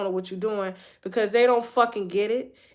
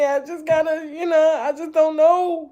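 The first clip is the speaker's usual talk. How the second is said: retold crying; 7 semitones higher, 5 dB louder than usual. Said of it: "I was just crying".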